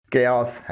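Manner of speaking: کیاس said "KAY-os"; correct chaos pronunciation. Shown as a demonstration. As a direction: start کیاس with a hard k. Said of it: "اس کی صحیح pronunciation".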